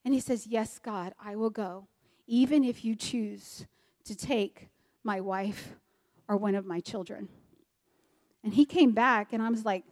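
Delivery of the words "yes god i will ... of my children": soft, low prayer of surrender; hushed surrender. Retold or imitated. Husband surrendering to God after wrestling all night, hushed and solemn. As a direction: yield quietly, slowing with pauses.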